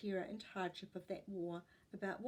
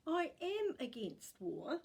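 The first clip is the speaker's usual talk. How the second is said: whisper; 8 semitones higher, slower than usual. Acted. Tyson's reply, unvoiced.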